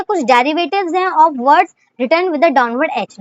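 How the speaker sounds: slow, dictating the heading; teacher reading a heading slowly. Shown as a demonstration. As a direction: read it out for the class to copy. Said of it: "reads rule for students".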